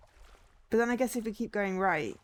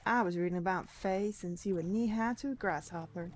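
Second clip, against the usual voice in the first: a hint of folksy southern twang; southern accent. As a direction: slip into a playful southern accent. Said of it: "I'm doing this weird southern accent".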